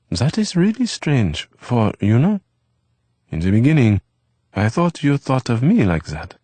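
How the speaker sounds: put-on lively boyish chatter from the kitchen; Eve's voice. A narrator's reading.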